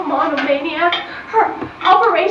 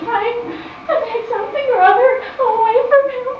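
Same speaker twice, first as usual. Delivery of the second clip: breaking into tears; 2 semitones higher than usual. Acted. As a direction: voice cracks into a sob on the last words. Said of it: "Why are you crying?".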